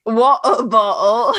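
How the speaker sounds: Water bottle slow with a rising tune and clear wah-tuh bah-tl; American accent. Shown as a demonstration. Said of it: "in an American accent".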